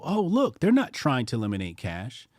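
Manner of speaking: naive onlookers. Retold or imitated. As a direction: play the gullible public falling for it. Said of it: "many people look at this and they go".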